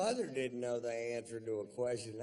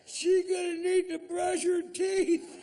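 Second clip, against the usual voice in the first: put-on kid friend. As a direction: squeal it like a shocked young boy. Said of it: "and he went".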